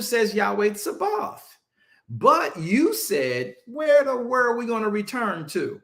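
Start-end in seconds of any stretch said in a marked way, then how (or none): 3.7-5.8 higher, mocking back-talk to God; arrogant retort. Preacher voicing Jacob's arrogant reply to God, mocking. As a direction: sass it like a kid talking back. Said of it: "Look at Jacob's arrogance".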